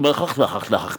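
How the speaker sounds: throaty gibberish mimicking a foreign tongue; mock guttural babble; imitated foreign speech noises. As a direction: make up throaty foreign-sounding nonsense. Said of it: "Except she's saying it like".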